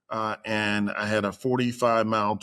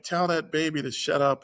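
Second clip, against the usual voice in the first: higher-pitched mock agitated demand; retold complaint; 6 semitones higher than usual. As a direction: act out an exasperated patient's plea. Hallucinating patient's complaint to wife, retold.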